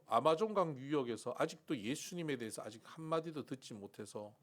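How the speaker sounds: rising, indignant protest to God; arguing with God. Retold or imitated. Seminarian arguing with God, indignant. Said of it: "하나님 앞에 막 따지는 거예요".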